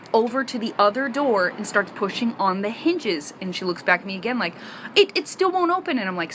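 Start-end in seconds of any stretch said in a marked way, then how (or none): 4.9-6.0 put-on high-pitched, helpless child's voice; baffled young daughter. Daughter looks back at mom by the door, baffled. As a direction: stammer slightly like a stumped kid.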